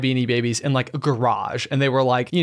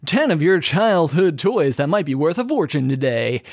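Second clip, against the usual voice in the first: bright buzzy announcer read; Buzzy Bee voice. Acted. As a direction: read it like a perky clickbait headline. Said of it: "that's my Buzzy Bee voice".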